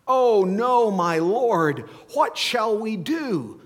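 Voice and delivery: loud, high cry of panic; the terrified servant shouting for help; panicked servant. Acted. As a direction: servant crying out to his master in panic. Servant sees the surrounding army.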